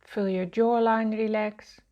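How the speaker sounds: measured relaxation-guide voice with long pauses; guided meditation. Real, not acted. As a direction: guide listeners gently into relaxing, phrase by phrase.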